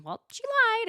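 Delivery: high, loud retort; mock indignant snap; snappy accusation. Emily and Tamara accuse.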